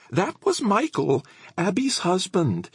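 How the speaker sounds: put-on high, slow old lady voice; chatty elderly woman. A narrator's reading. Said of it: "Missus Howlett said".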